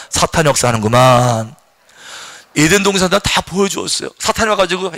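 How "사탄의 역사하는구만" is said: low repeated phrase; calm low recitation; repeat after me. Shown as a demonstration. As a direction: echo the line as the model. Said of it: "따라합시다".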